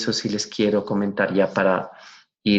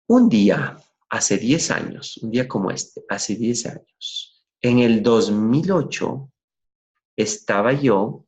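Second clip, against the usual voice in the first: storytelling opening. Shown as a demonstration. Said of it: "Se para frente al público y dice".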